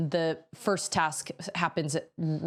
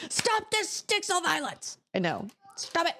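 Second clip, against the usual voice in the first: mock self-scold; 12 semitones higher than usual. Real, not acted. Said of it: "scolding herself".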